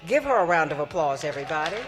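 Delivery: rising into a loud applause call. Real, not acted. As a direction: lift the room to cheer for her. Host calling for applause.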